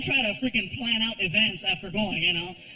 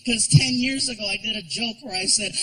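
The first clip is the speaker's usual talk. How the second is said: ordinary talk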